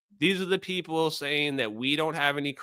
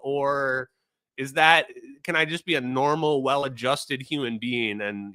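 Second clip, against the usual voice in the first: sarcastic question; 3 semitones higher than usual. Retold or imitated.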